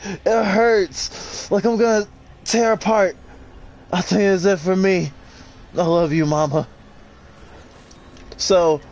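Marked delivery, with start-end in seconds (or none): 0.0-6.7 dramatic note reading, voice raised; reading note aloud. Acted. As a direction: read the dying worker's note, pained. Reads in-game note aloud.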